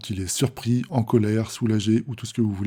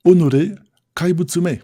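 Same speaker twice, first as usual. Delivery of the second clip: high, loud outburst at a monster; hurled insult; 6 semitones higher, 6 dB louder than usual. Acted. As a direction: throw it out as an insult. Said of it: "c'est une insulte". (insulte lancée, voix forte et aiguë)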